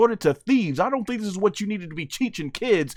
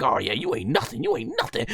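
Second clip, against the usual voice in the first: mocking taunt; 10 semitones lower, 5 dB quieter, faster than usual. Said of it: "this is like".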